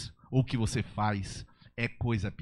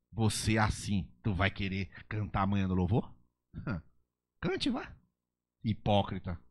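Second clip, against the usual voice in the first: mocking accuser. Satan mocking the believer before worship, sneering. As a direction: jeer at the singer, then spit the insult. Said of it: "ele fala assim".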